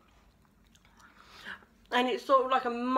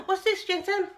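surprised gasp; 8 semitones higher than usual. Real, not acted. Gasps at dog's toy.

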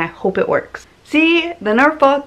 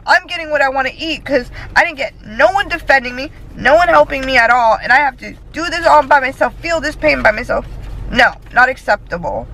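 mad; 5 semitones higher than usual. Real, not acted. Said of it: "I'm mad".

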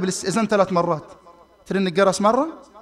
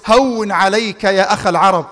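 gentle reassurance; 3 semitones lower, slower than usual. Retold or imitated. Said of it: "فقال له النبي".

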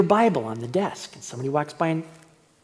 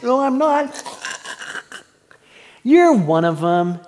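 loud, high, insistent; heated denial; 7 semitones higher, 6 dB louder than usual. Acted. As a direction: shout it back, refusing to back down. Heated back-and-forth over Peter.

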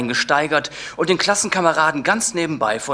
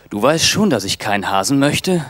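louder, firm refusal; 2 semitones higher, 6 dB louder than usual. Acted. Man refusing his girlfriend a rabbit, firm and louder. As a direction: put your foot down. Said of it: "sagte ich bestimmt".

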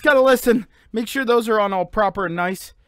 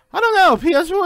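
mock gamer voice; 6 semitones higher, 5 dB louder, faster than usual. Repeats catchphrase in mock voice.

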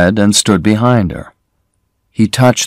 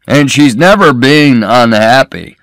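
put-on greedy old man; 4 semitones higher than usual. A narrator's reading. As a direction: savour each word like a greedy old boaster. Greedy old man Cassidy speaks.

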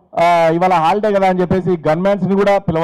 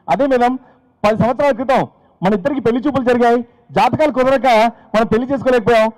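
eager attendant; 5 semitones higher than usual. Retold or imitated. Attendant explaining.

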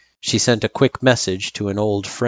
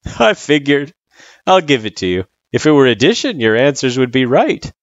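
lightly voiced friendly tutor, louder; a touch higher, reassuring character voice; Sans, easygoing tutor; 7 semitones higher, 5 dB louder than usual. Sans forgiving the test mistake, easygoing.

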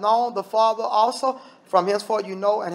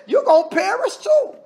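preaching warning; 13 semitones higher than usual. Acted. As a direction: fire the warning up high at the congregation. Preacher voicing Jesus' warning.

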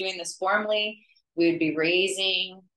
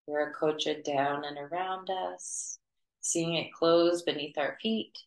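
even, unhurried meditation voice with long pauses; guided meditation. Acted. Teacher leading students to clear their auras, guided meditation. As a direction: guide them gently through it, pitch held level.

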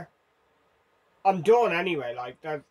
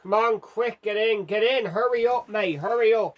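loud, higher hurried urging; urgent shouting; 5 semitones higher, 4 dB louder than usual. Real, not acted. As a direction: hurry him into the cab, loudly. Urging passenger to hurry.

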